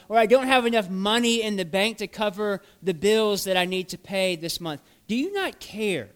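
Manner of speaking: a believer crying out to Jesus, pleading and building; building anguished plea. Acted. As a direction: pour out each hurt, rising in force. Imagined anguished prayers of listeners.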